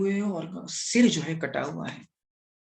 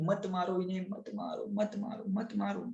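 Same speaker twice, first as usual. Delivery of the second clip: soft, raised pleading; hushed, repeated begging, fading away; 3 semitones higher, 9 dB quieter than usual. Acted. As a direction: plead for his life in a small voice. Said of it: "जीवन की भीख मांग रही थी".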